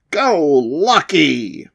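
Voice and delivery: slow, rallying call to a pet monster. Acted. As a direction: send the monster into battle. Kid calls out his monster.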